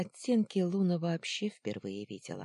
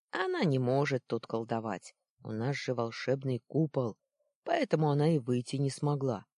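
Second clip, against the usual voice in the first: put-on urgent boy; 3 dB louder than usual. Boy urging his friend to fetch grandpa, slightly loud. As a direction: kid pressing his friend, a bit louder.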